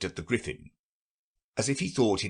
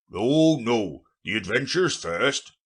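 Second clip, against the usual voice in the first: louder, pushy insistence; impatient; 3 semitones higher, 5 dB louder, slower than usual. A narrator's reading. Gryphon demands Alice's adventures first, louder and impatient. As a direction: brush the explanations aside. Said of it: "in an impatient tone".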